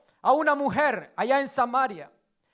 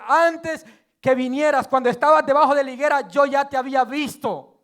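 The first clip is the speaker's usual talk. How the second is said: proclaiming loudly; 6 dB louder than usual. Acted. Jesus quoted to Natanael.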